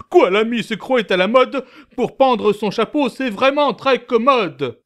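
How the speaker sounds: high, laughing and offhand; cavalier. Acted. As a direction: toss it off cheekily.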